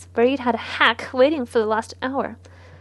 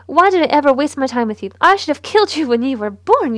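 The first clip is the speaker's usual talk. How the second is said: angry rant; 2 semitones higher, 6 dB louder than usual. Acted. Mother berating her son.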